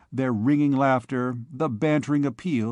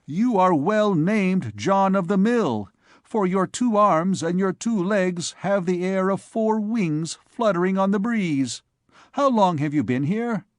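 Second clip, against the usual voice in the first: higher-pitched, lively student banter; teasing student; 6 semitones higher than usual. Acted. Student mocking his friend John of the Mill, lively banter. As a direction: tease a friend in a raised pitch.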